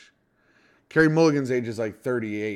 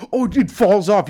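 mocking imitation; 6 semitones higher, 7 dB louder than usual. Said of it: "You go".

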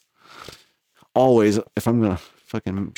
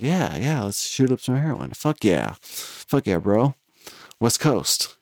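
tag; 4 dB quieter than usual. Retold or imitated. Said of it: "act, like, cool about it".

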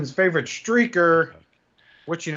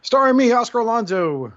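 hyped intro; 5 semitones higher, 4 dB louder than usual. Acted. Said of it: "What a dramatic pause".

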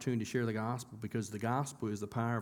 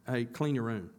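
firm parent order; 3 semitones higher, 4 dB louder than usual. Retold or imitated. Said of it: "That, that'd be a statement".

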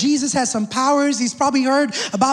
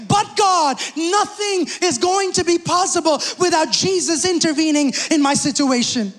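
desperate plea. Retold or imitated. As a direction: cry out to God in desperation. Desperate cry to God.

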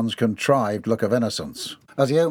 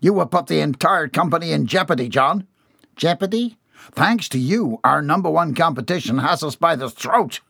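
raised, stern boss voice; angry old boss; 5 semitones higher than usual. Acted. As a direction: scold him hard. Boss scolding employee.

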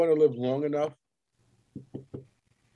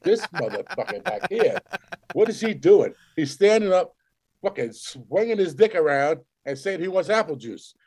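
mock exasperated staff; 6 semitones higher than usual. Voices exasperated nursing home staff.

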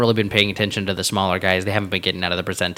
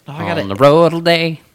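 mocking imitation; 8 semitones higher, 8 dB louder than usual. Mocking friend's words.

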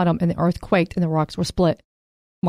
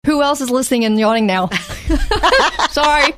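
laughing; 6 semitones higher, 3 dB louder than usual. Real, not acted. Laughing at contagious yawning.

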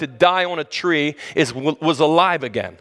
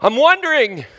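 puzzled muttering to himself; 8 semitones higher than usual. Retold or imitated. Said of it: "I'd get in my car driving away going".

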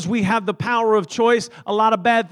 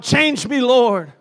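a half-raised cry of change me, Lord; mock shouted prayer; 3 semitones higher, 4 dB louder, much slower than usual. Pastor modelling the congregation's cry, moderately raised. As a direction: call out "Change me" with only some force. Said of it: "somebody that would shout".

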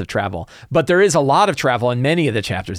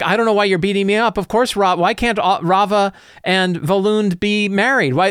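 higher, pleading priest voice; bewildered priest; 7 semitones higher than usual. Acted. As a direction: protest your innocence as the beaten priest. GM voicing the beaten priest.

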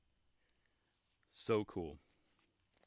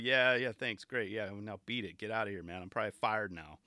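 imitated indifference; 3 semitones lower than usual. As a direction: brush him off like a bored guard. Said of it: "that dude didn't care".

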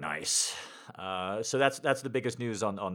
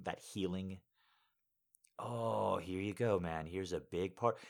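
soft, sighing voice of the body; voicing own body; 6 dB quieter than usual. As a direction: break it gently, with soft sighs. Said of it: "And it just said, like".

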